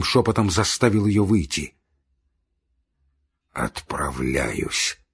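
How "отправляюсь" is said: low, soft, drawn out slowly; weak dying voice. A narrator's reading. Dying man tells his brother, weak and slow. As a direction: let the word out slowly and faintly.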